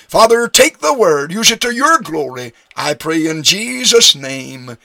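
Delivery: preacher's prayer, starting high and settling down; closing prayer. Real, not acted. Preacher asking the Father to use the word, prayerfully.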